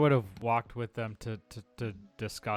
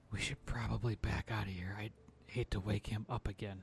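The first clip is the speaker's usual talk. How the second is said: hushed whisper under breath, much quieter; 9 dB quieter than usual. A player in a tabletop game says his character's line in a hushed whisper. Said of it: "I'm gonna say kind of in a hushed whisper".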